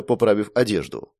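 ordinary delivery

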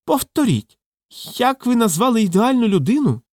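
high, strained threatening demand; menacing voice. A narrator's reading. Vybegallo threatens Roman over the ideal man, high and strained. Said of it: "страшним голосом поцікавився вибігало".

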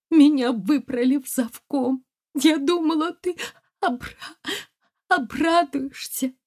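high, broken words through tears; tearful. Acted. Wife telling her husband her hurt, tearful and broken. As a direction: catch on the word as the sobs come. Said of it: "Плача".

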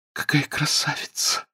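admiring whisper. A narrator's reading. Housekeeper admires the injured girl, whispering. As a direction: marvel under your breath.

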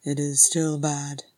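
slow, grim confirmation. Acted. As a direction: concede it heavily. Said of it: "Thorin said grimly".

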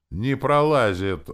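loud, high, slow strained cry; straining soldier calls out; exclaiming. Acted. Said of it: "воскликнул правый из двоих бойцов".

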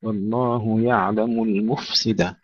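المفسد slowly, ف clear before س; slow correct F. Shown as a demonstration. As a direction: keep the ف audible in المفسد. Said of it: "لا تضيع مع السين".

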